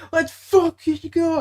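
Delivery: high, drawn-out celebration yell; stretched, high-pitched sports cheer; retold excited scream. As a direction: re-enact screaming for a home run. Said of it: "I just, like, scream".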